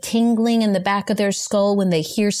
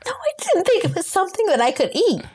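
panicked; 11 semitones higher than usual. Pretend. Allergic panic, throat closing.

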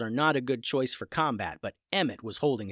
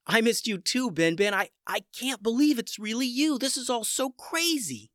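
tearful; 9 semitones higher than usual. Acted. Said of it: "squeezed tears right out".

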